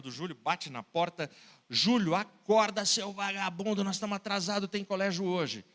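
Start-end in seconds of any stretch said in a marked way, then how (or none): 1.7-5.6 father yelling his son awake for school; yelling to wake him. Acted. Father bangs on son's door.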